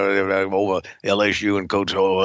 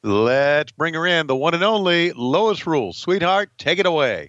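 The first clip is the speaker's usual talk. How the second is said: bright rising announcer lift; hyped introduction; 5 semitones higher than usual. Acted. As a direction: hype up the next guest.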